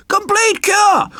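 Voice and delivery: high, slow, unctuous magician's voice; oily showman crowing over his cure; smug magician. Acted. Magician boasting to the king, high and unctuous.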